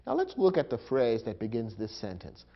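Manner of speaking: ordinary talk, nothing marked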